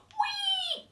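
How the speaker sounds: high squeal of fun; gleeful whee. Acted. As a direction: sing out with joy. Snails playing, shouting whee.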